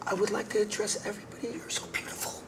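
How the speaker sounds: zacht, ademend filmsterrentoontje, een beetje overdreven; fifties film actress. Retold or imitated. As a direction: speel licht een ouderwetse diva die de zaal toespreekt. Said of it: "like a classic actress from the fifties".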